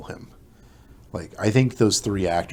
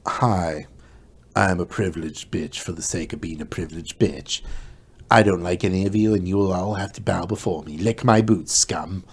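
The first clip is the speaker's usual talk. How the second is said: loud, fast, bossy mock brat; privileged brat; 4 dB louder than usual. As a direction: sneer it like a spoiled tyrant. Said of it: "She's just".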